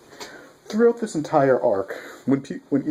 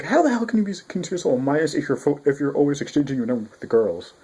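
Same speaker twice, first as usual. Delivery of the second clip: mock incredulous; 4 semitones higher, faster than usual. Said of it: "he's like".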